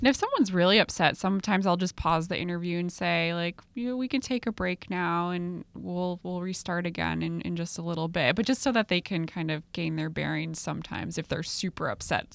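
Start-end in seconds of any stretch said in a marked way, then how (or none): 3.8-8.4 gentle reassurance. Shown as a demonstration. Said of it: "offering upset patient a break".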